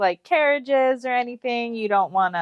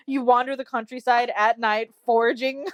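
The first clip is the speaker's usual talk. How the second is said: mock incredulous, pitched up; shocked and angry; 4 semitones higher than usual. He questions her wandering at night, shocked and angry. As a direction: act out appalled surprise. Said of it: "shocked and surprised and angry".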